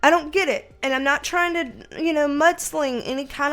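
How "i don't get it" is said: much higher, louder, startled; surprised outburst. Real, not acted. Reader reacting to the card she just drew, startled and high. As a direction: jump up in pitch, stunned by the card. Card confirms her suspicion.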